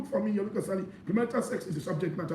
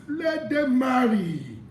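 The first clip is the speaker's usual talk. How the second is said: proclaimed shout; 3 semitones higher, 4 dB louder, much slower than usual. Acted. Preacher proclaiming verse.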